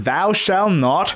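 high, drawn-out mock proclamation; old-time lawgiver. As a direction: proclaim it slowly like an ancient commandment. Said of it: "in the eighteen hundreds, they're like".

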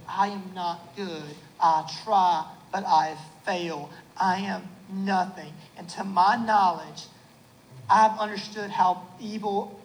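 retelling a tearful confession, slow and broken; a hint of a weeping man pleading; crying voice. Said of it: "in his crying voice".

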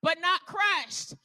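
drawn out, stress on not. Shown as a demonstration. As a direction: let it sink in. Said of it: "listen to what the word says".

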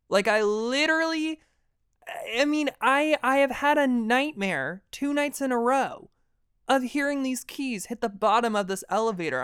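high and loud, keyed up; worked up. Real, not acted. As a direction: let the panic spill over. Recounting nightmares, worked up.

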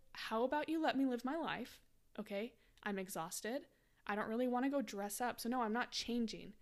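retold offended retort. Tired girlfriend refusing to dress up, offended. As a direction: act out taking mild offence. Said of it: "I actually, like, got offended".

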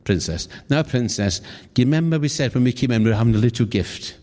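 a touch of a patient mum explaining; soothing mother. Retold or imitated. Mother kneeling to calm her daughter, mildly soothing. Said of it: "talks to her and said".

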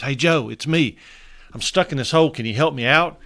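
mock cry for help from the hole; imitated scream. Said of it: "he screams".

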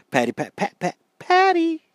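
squeaky, high laughing repeat of the pun. Real, not acted. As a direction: crack yourself up on the punchline. Laughing at his own pun.

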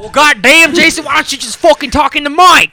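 loud, high, exasperated burst; exasperated outburst. Real, not acted. Friend prodding Jason to talk into the mic, exasperated.

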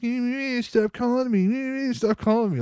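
very high, whiny playground taunt; mocking mimicry. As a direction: parrot it back in a squeaky whine. Callers mockingly parrot the man's complaint.

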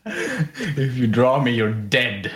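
slow mock-serious threat; completely serious. Art teacher threatening a student over a comic, completely serious. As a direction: deliver the threat in mock earnest. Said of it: "he was completely serious".

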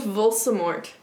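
"Volsamort" said with an s in the middle; misspelling read out. Shown as a demonstration. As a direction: sound out "Volsamort" as written, amused. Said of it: "It's spelled".

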